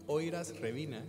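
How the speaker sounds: saying aniversario reversed as Oiras Revina; backwards word. Shown as a demonstration. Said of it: "¿Cómo, cómo?".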